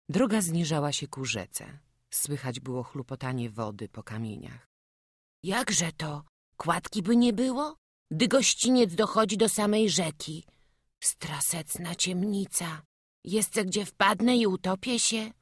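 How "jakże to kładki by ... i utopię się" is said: put-on higher-pitched, worried child; frightened little boy. Runaway boy cannot find the footbridge at night, worried voice. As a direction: fret aloud in a small boy's voice.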